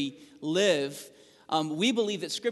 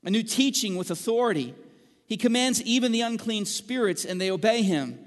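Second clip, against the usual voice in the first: amazed crowd; 5 semitones higher, 3 dB louder than usual. Acted. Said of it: "they questioned among themselves, saying".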